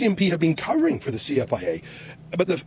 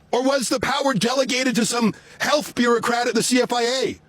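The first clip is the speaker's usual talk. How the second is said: raised, higher voice to carry through a window; outdoors voice; 5 semitones higher than usual. Real, not acted. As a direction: call out so people in a closed car hear. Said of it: "I'm using my outdoors voice so they can hear me".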